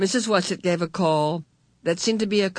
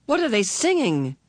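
excited; 5 semitones higher than usual. Acted. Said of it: "Meg asked excitedly".

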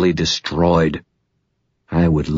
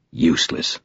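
bitter. Acted. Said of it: "he said bitterly".

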